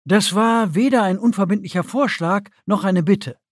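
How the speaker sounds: commanding rebuke; sharp interruption. A narrator's reading. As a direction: cut the objection off at once. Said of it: "Die Akonidin unterbrach sie sofort".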